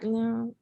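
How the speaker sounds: fudge "No" as a subtle, indistinct murmur of a name; deliberately vague pronunciation. Shown as a demonstration. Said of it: "real subtle".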